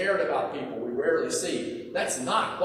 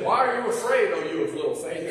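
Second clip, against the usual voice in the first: Jesus rebuking; 4 dB louder than usual. Retold or imitated.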